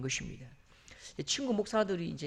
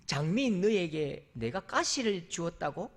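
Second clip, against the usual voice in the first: lightly voiced God, lower and slow, chuckling; amused God; 4 semitones lower, slower than usual. God laughing as he answers the complaining rose, slow.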